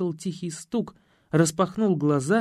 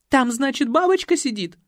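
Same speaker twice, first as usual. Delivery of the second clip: scared retort; 8 semitones higher, 5 dB louder than usual. A narrator's reading. Girl sarcastically pointing.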